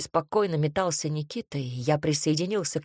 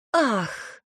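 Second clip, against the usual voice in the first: high, hammed-up fainting sigh; a fake swoon on one breath; mock gasp to prank him; theatrical gasp; 6 semitones higher, 3 dB louder than usual. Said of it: "театрально вздохнула она".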